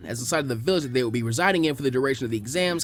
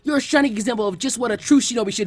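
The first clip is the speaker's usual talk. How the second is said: tearful; 7 semitones higher, 4 dB louder than usual. Acted. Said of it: "tears streaming down his face".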